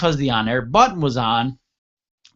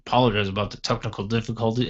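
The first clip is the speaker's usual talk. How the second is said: mock news anchor; 2 semitones lower, 4 dB quieter, faster than usual. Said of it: "instead of, like".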